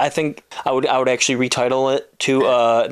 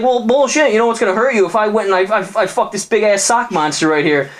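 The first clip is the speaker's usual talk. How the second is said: put-on very high taunting girlfriend; hammed-up spiteful threat, higher voice; 8 semitones higher than usual. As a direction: needle him from way up high. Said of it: "She's like".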